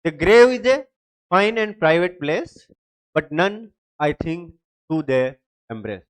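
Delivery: slow, fading poetic reading; poem recital. Shown as a demonstration. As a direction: read it like a verse, letting it die away. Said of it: "मैंने दो line ली है इसके example के लिए".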